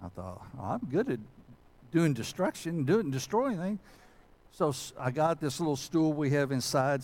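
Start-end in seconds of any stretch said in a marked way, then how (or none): 0.6-3.8 raised-pitch, self-mocking enthusiasm; mock eager. Preacher retelling his keenness for demolition, mock eager. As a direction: recall your own cocky eagerness, pitched up.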